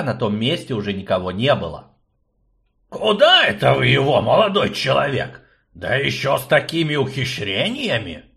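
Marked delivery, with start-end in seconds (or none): 2.9-8.2 put-on fussy old man. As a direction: play the fussy old rector. Akcium prying.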